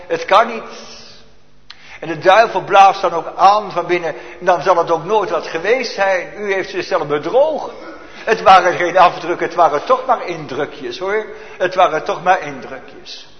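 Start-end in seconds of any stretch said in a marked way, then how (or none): 0.1-1.0 high, rising cry of disbelief; anguished protest. Acted. Voiced despair of grieving disciples. 6.4-13.3 mocking devil. Devil's mocking voice, laugh heard.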